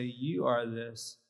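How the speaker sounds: each word given weight, slowly; slow, deliberate. Shown as a demonstration. Trainer showing how to name what you see. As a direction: plant the words slowly. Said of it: "If I say".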